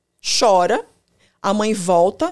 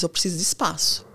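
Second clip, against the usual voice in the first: avoidant partner; 4 dB quieter than usual. Retold or imitated. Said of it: "o evitativo diz".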